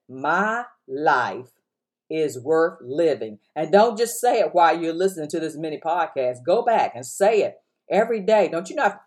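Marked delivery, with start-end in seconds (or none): 0.1-3.4 spoken affirmation. Shown as a demonstration. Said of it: "Look, say".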